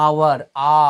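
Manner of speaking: আওয়ার broken down to its first sound আ; pronunciation demo. Shown as a demonstration. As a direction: isolate the আ opening আওয়ার. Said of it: "আবার এখানে দেখো কি রয়েছে". (আওয়ার থেকে আ ধ্বনি আলাদা করে)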